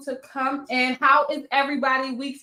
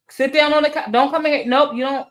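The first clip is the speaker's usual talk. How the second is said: firm order; 5 dB louder, faster than usual. Real, not acted. Mom ordering her child onto the couch, stern.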